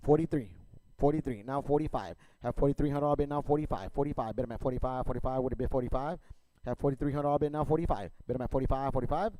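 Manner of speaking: rapid rhythmic auction chant; auctioneer. Real, not acted. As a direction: rattle off bids like an auctioneer. Auction chant bidding calls.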